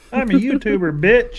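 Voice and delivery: high, loud laughing boast; mock shout. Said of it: "I'm screaming at four o'clock".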